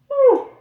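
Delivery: long yawn breaking into a high whew; yawning sigh. Real, not acted. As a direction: let a big yawn out. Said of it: "my medication makes me yawn a lot".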